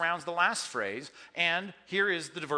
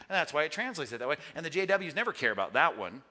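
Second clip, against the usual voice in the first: usual speaking voice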